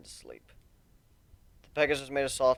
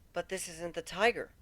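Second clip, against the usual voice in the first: petulant; 4 semitones higher, 7 dB quieter than usual. A narrator's reading. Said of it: "Kuno pointed out petulantly".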